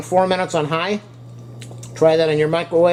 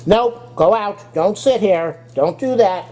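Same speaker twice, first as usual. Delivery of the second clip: scolding the dog; 6 semitones higher, slower than usual. Real, not acted.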